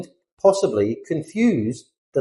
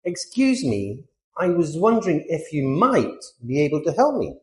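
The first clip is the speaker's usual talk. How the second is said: indirect, polite. Acted. Teacher demonstrates British English request for help, indirect and polite. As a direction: ask very politely, easing into it. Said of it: "very indirect and polite".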